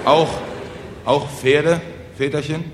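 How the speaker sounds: hesitate, then ask with a rising tone; anxious. Acted. Peasants ask the speaker about horses, hesitant and anxious. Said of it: "fragten ängstlich die Bauern".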